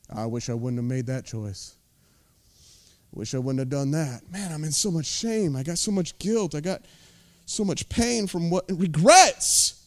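low, soft regretful inner voice; muttering shame to yourself; mock regret. Voicing a regretful churchgoer.

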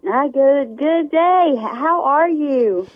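morning voice. Real, not acted. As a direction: sound like you just got out of bed. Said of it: "That sounds like your morning voice".

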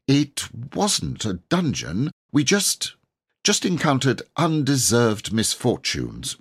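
lightly voiced boy rattling off his story; boy Robert, eager and breathless. A narrator's reading. Robert telling the knight his tale, eager boyish voice.

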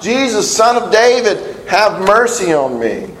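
lightly acted beggar calling; retold crying out. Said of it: "he keeps crying out".

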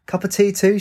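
high, mock-innocent query; sarcastic. A narrator's reading. She answers his pub order, sarcastically. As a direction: lift it high with mild sarcasm. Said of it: "she replied sarcastically".

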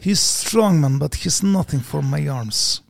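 put-on slow, heavy Russian-accented boast; Russian accent, slow and dismissive; mock Russian accent. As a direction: brag like a Russian strongman. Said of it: "I was doing Russian".

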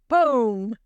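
usual speaking voice

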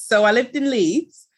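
a slightly thickened Yorkshire accent, played up for the host. Shown as a demonstration. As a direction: lean a little into your Yorkshire vowels. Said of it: "That's me putting on a little bit more".

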